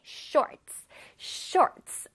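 "Shorts" in one strong, distinct beat; 강하고 뚜렷하게. Shown as a demonstration. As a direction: punch "Shorts" out clearly in one go. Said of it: "한 번에 강하게 뚜렷하게". ("Shorts"를 한 번에 강하게)

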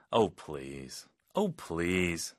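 you know they'll ask later; scoffing oh please. Shown as a demonstration. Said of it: "이런 상황이죠". (어이없다는 낮은 "Oh, please")

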